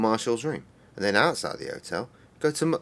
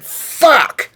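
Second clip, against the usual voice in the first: replaying the loud frustrated yell; retold yell; 14 dB louder than usual. Recounting his yell on getting home, loud. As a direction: shout the one word as he did then. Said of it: "I went".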